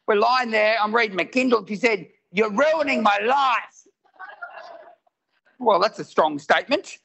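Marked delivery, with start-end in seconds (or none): 2.3-3.9 drawn-out, slightly raised mock outburst; retold snapping. Wife snaps at husband reading in bed, mildly acted snap. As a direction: draw it out as an imitated wife's complaint. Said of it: "until one night when she snapped".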